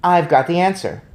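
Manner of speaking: loud eager announcement; boy shouts answer to grandmother; excited shout. A narrator's reading. Thrilled, loud and eager. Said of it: "I shouted".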